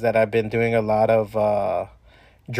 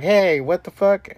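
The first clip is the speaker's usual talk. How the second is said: shocked reaction; 7 semitones higher, slower than usual. Retold or imitated. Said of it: "you're just like".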